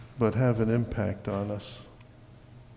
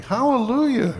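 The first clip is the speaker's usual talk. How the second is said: high, loud hallelujah, held strong; praise shout; 9 dB louder than usual. Real, not acted. Preacher cheering the congregation on at the opening, exultant shout. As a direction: call out praise, pitched way up.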